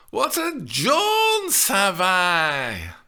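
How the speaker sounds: put-on slow, loud Lancashire old woman; the nurse in a Lancashire accent. A narrator's reading. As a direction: call it out in broad Lancashire. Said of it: "in her strong Lancashire accent".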